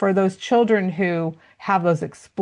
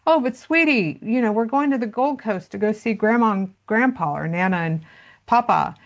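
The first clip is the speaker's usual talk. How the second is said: higher, sugary coaxing mom voice; imitating a mom sweet-talking her toddler, pitched up; soothing mom; 5 semitones higher than usual. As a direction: coax a whiny toddler, sing-song. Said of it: "And the mom said".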